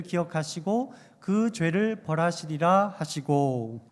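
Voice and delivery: measured, even verse reading; scripture reading. Real, not acted. Preacher reads Jeremiah's verse with the congregation, scripture reading. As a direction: read the verse out steadily.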